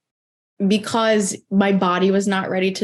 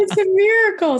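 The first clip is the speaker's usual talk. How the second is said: high mock-exalted proclamation; 12 semitones higher than usual. Joking to host, she hammed-up proclaims it a miracle.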